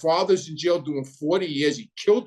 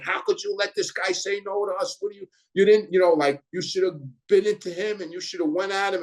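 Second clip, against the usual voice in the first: retold yelling; 4 semitones higher than usual. Tony Lee yelling at Angelo for backing down, retold angry rant. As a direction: mimic a furious scolding. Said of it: "like, yelling".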